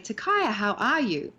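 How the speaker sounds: bright cheerful greeting; happy. Shown as a demonstration. Acting teacher showing a happy greeting. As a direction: greet Takaya like you're glad to see him. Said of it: "So right now I'm happy".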